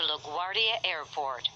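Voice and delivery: choppy automated subway announcement; pieced-together recorded phrases, uneven joins; spliced together words. Real, not acted.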